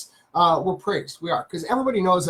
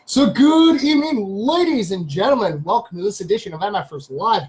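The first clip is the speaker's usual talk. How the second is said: show-opening host greeting. Real, not acted. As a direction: welcome the audience like a live show host. Opens the live show as host.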